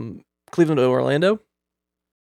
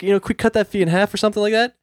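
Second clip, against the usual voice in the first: higher, lightly pleading request; tugging heartstrings; 6 semitones higher than usual. Retold or imitated. Customer bargaining with agent over a fee, mildly pleading. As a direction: coax for a small favor. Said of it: "tug some heartstrings".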